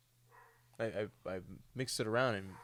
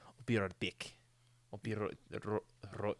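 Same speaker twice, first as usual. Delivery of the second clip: trying a rolled R in right, stumbling; South African accent; 3 dB quieter than usual. Retold or imitated. Retelling Matt Damon's accent struggle, mock South African. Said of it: "like a South African would say".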